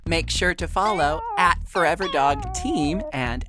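measured announcer read over music; practised promo voice, names set apart; podcast credits read. Real, not acted. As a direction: read out the credits with deliberate polish.

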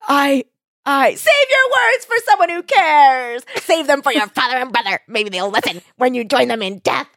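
high, hammy villain voice ending in a laugh; cat-witch taunting the dying boy; gloating villain with cackle. Acted. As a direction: ham up the evil victory speech. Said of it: "and she's like".

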